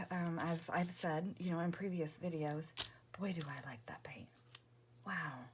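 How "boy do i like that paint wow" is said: soft delighted whisper; quiet at night. Real, not acted. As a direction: whisper it softly. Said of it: "I'm talking quietly".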